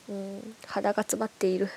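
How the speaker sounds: stuffy nose voice; talking through a blocked nose. Real, not acted.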